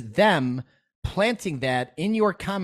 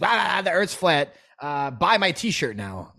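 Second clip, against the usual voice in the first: higher, slow, hammed-up huckster voice; mock sales pitch; 4 semitones higher, slower than usual. Mocking a careless truther who sells shirts, hammed-up huckster. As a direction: ham up a lazy flat-earth hawker.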